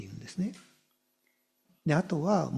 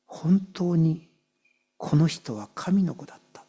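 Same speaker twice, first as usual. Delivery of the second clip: heartfelt confession; 2 semitones higher than usual. Acted. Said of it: "一人の人として言葉を言うんです".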